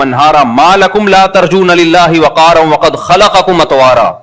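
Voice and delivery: slow, continuous chant-like recitation; Quran recitation. Acted. Preacher reciting Noah's call to his people, slow Quranic recitation. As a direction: carry the verses on steadily, elongating the endings.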